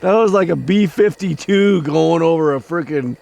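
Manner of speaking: high, loud amazed rush; excited. Real, not acted. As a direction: still buzzing from the fright. Reacting to huge moth.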